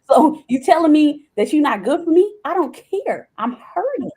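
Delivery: high, pleading voice of her hurting younger self; hurt, lonely past self. Retold or imitated. To a friend setting boundaries, her past self answers high and hurt. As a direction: voice cracking with hurt as she replays her old self. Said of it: "that was me back in my trauma".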